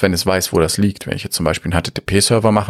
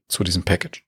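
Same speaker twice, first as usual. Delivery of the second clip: voice giving out; 6 dB quieter than usual. Real, not acted. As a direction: voice cracks and fails mid-sentence. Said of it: "da hat meine Stimme versagt".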